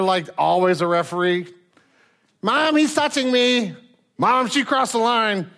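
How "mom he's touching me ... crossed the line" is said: put-on high whiny kid voice, tattling to mom; whiny tattling little sibling. Kids tattling in the car.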